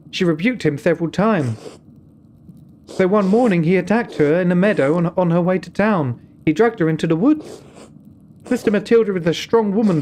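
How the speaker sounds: a nun cautioning the visitor, firm and grave; stern nun. Acted. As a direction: warn him like a careful abbey sister. Voices the nun in dialogue.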